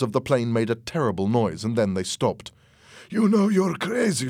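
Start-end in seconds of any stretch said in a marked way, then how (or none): 3.1-4.3 high, exasperated reproach; acted agitated scolding; heated accusation. A narrator's reading. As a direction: tell him off in disbelief. Fernando berates Louis.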